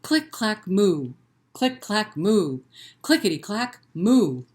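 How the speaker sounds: rhythmic click clack with a big loud moo; read-aloud refrain; typing cow refrain. Shown as a demonstration. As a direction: bounce the clicks, belt the moo. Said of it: "you have to join me".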